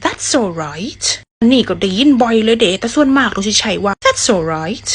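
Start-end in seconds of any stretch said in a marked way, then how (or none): 0.0-1.0 British replies. Shown as a demonstration. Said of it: "อยู่อังกฤษนี่ส่วนมากนี่". (พูดวลีตอบขอบคุณแบบอังกฤษช้าๆ)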